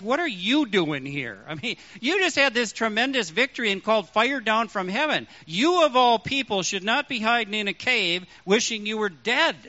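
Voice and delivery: "are" leaned on with a fall; "are" given weight; stress on are. Shown as a demonstration. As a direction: press on "are". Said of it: "he might have stressed".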